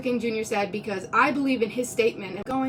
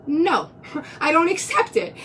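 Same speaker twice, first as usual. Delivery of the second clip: laughing refusal; 5 semitones higher than usual. Retold or imitated. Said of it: "And I was like".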